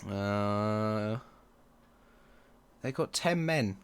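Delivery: ordinary delivery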